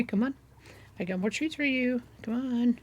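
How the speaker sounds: lightly playful pet-calling voice; coaxing an animal. Pretend. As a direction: tempt the animal along with a treat. Luring the cow with treats.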